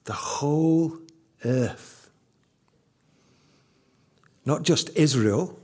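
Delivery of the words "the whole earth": whispered, hushed repeat. Acted. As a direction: breathe it out for emphasis. Preacher repeats phrase for emphasis.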